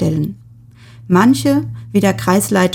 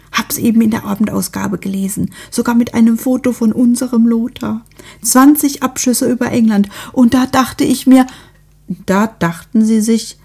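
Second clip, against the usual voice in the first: a busybody overflowing with news; lightly voiced eager neighbour; gushing neighbour; 4 semitones higher than usual.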